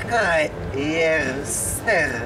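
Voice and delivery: slow, warped reversed recording; reversed playback. Shown as a demonstration. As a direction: sound like a tape played backwards. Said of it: "noch mal abspielen".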